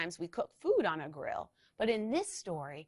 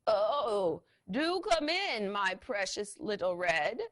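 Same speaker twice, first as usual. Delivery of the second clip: a hint of a sweet old granny, cackling; mock granny voice; slower than usual. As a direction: put on a fake granny voice. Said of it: "cackled Tank in his best Granny voice".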